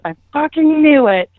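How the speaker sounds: high-pitched retold outburst; angry accusation. Ex-girlfriend opening the closet on her, mock outraged. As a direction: imitate catching someone red-handed.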